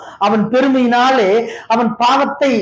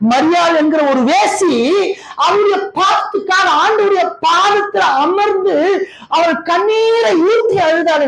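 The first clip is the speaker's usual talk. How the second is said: tearful preaching; 6 semitones higher than usual. Real, not acted. Preacher emotional, cry heard.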